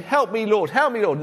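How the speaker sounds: half-acted cry for help; mock cry for help. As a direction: act out a mild desperate plea. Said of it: "you will cry out".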